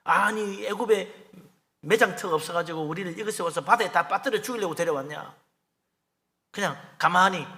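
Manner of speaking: run-on, mildly aggrieved protest; mock resentful complaining. Israelites trapped at the sea blame Moses, complaining. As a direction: imitate a crowd griping at their leader. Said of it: "그때도 막 부르짖으며 원망하는 거예요".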